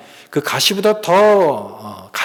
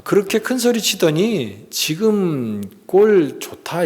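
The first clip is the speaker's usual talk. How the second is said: slow, higher-pitched mock taunt; sarcastic jeering; 5 semitones higher, slower than usual. Preacher demonstrates the mockers' tone at Golgotha, sarcastic. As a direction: draw out the imitated sneer. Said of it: "굉장히 비아냥거리고".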